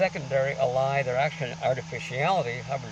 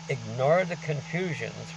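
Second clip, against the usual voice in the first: slow emphatic quote; 3 dB louder, slower than usual. Acted.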